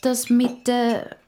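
slow, halting start; hesitant stammer. Acted. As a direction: falter as you search for words. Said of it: "stottert der Musa". (zögerlich gestottert)

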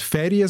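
"Ferien" with a short, open E as in "Färrie"; Zurich open E. Shown as a demonstration. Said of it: "Zürcher würde Ferien sagen".

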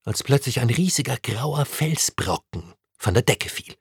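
ordinary delivery, nothing marked

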